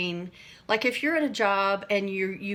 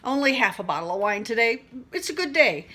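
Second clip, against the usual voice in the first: laughing through a joking tipsy-mom voice; frazzled wine mom; 2 semitones higher, 5 dB louder than usual. Retold or imitated. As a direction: ham up the mom who needs her wine. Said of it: "It's like".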